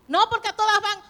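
put-on high, loud pleading teen; whiny daughter protest. Daughter protesting to her mother, high pleading whine. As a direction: plead like a girl left out.

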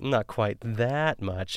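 slow, unhurried, lightly voiced TV cook; Ina Garten cadence. Quoting the host's line in a slow, lightly imitated cadence. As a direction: draw it out gently like a poised hostess. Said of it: "that Ina Garten cadence".

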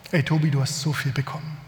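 mock the pushy sermon without pressing; preachy admonition. Pastor imitating a preacher urging a listener, mild mock admonition. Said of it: "Auslegung, die ich in Predigten gehört habe".

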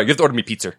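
"pizza" ending in an r, New York accent. Shown as a demonstration. Host correcting himself for the joke, New York accent. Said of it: "no, I'm sorry".

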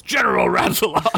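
high booming frog general call. Acted. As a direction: bellow it like a huge frog. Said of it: "came a booming frog voice from outside".

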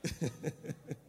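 breathy soft chuckle; soft laugh. Real, not acted. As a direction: let a quiet laugh out. Laugh after joke. (risa suave y sin voz)

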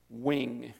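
"Wing" said as one plain syllable; chosen name pronunciation. Shown as a demonstration. Pastor telling congregation his chosen pronunciation, "Wing" as one syllable. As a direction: say "Wing" like the English word. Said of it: "how I'm gonna pronounce his last name".

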